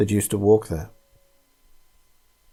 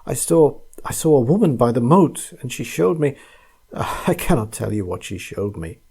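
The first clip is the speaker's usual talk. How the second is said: terrified; 2 semitones higher than usual. Acted. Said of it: "gasped the terrified man".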